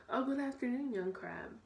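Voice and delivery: put-on high fussy old bird voice; prim, proper egret greeting; a hint of a shrill old egret. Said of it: "she said in her shrill voice".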